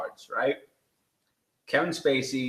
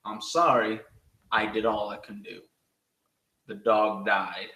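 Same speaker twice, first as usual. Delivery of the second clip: imitated fake regret; 3 semitones lower than usual. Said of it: "he looks at them and he says".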